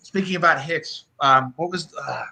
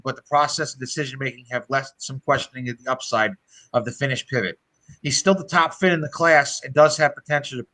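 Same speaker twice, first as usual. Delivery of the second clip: reading a scouting report; 3 semitones lower than usual. Real, not acted. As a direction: read aloud evenly from written notes. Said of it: "I have it right here as a scouting report".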